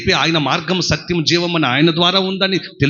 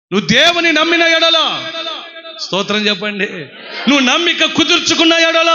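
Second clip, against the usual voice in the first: Jesus speaking to Jairus; 3 semitones higher than usual. Acted. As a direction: reassure the worried father. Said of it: "ఆయన ఏమంటాడు తెలుసా".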